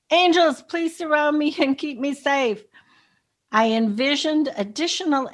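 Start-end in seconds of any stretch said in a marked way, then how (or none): 0.1-2.6 higher-pitched retold plea, louder at first; recounting an out-loud appeal, pitched up; retold plea spoken aloud. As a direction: call on the angels, starting high and strong. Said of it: "I remember speaking out loud".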